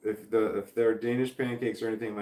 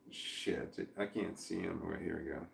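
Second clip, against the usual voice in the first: whispering; 4 semitones lower, 11 dB quieter than usual. Real, not acted. Adjusting camera to show dog.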